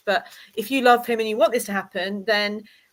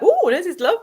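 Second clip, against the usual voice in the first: high, loud swooping gush; mock delighted ooh; 8 semitones higher, 5 dB louder than usual. Reader imitating her own card reaction, mock gushing. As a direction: give it away with an exaggerated ooh. Imitating the revealing sound effect.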